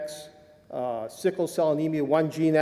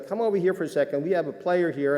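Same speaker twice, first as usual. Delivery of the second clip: lightly imitated Southern accent, a little raised; bad Southern accent; 4 semitones higher than usual. Trainer calling the new doctor over, mild Southern accent. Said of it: "Sorry, bad Southern accent".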